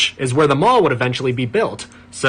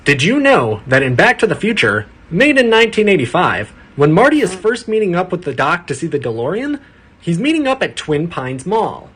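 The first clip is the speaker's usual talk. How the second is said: breathless "did you know" narrator; trivia video narrator. Pretend. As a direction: sell the trivia as a revelation.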